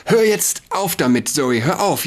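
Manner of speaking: high, loud tearful cry to stop; sobbing plea. Acted. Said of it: "sagte Franny schluchzend". (schluchzend, hoch und laut)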